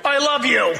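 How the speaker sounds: firmer I love you. Shown as a demonstration. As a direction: push "I love you" out firmly. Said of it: "It's all in the tone".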